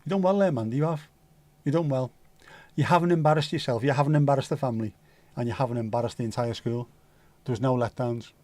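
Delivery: put-on rustic West Country accent; lilting West Country praise. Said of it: "we need to do that in a, a West Country accent".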